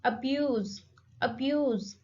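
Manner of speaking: "abuse" with BUSE stressed; light A, strong falling BUSE in "abuse"; teacher's model "abuse", weight on the second syllable. Shown as a demonstration. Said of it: "The stress is on second syllable".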